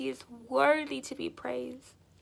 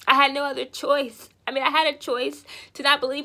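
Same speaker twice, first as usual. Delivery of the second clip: emphatic cry; 7 dB louder than usual. Real, not acted. Testimony rising to climax.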